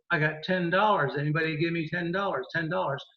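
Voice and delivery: quick auctioneer's call for bids. Shown as a demonstration. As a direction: rattle off the bid like an auctioneer. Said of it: "like an auctioneer, I go".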